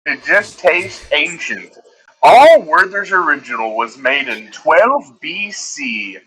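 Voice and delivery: slow, deliberate sponsor read with drawn-out pauses; milk each phrase like a cheesy candy commercial; mock ad read. Podcast host reads a joke sponsor spot to listeners, mock ad read.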